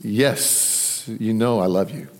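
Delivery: low, soft, understated answer; brief and subdued, acting out a reply; short, succinct reply. Peter answering Jesus' question, short and succinct. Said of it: "very short and succinct".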